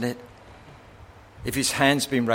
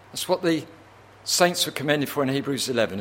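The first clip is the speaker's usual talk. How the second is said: usual speaking voice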